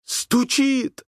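high excited shout. A narrator's reading. Boy hearing the boat at dawn, shouting with joy. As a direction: cry out in sudden joy. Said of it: "закричал".

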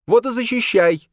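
high, loud furious retort; angry. Acted. Boya angrily throwing his words back, high and loud. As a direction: snap it back in anger. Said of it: "злилась Боя".

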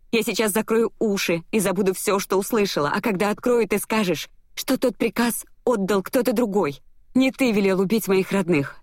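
high, urgent pleading; desperate pleading. A narrator's reading. Heroine begging him to blame someone else, desperate pleading.

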